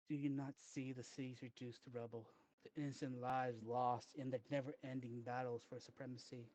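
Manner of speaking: lightly voiced grand villain speech; roman orator. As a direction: declaim it like a doomsday orator.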